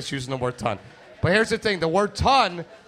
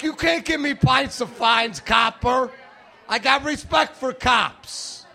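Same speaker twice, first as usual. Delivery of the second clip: higher, slow, mock-outraged shouting; indignant protest; 7 semitones higher, slower than usual. Arguing with the cop.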